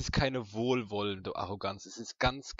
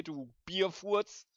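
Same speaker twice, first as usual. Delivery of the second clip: laughing through pain; 8 semitones higher, much slower than usual. Real, not acted. Mock insult, stretched.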